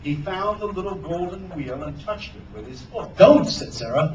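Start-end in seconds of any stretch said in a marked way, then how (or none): 3.2-3.5 loud, high, sudden cry; urgent warning. A narrator's reading. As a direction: cry out to stop him. Sarah warns Hook off the box.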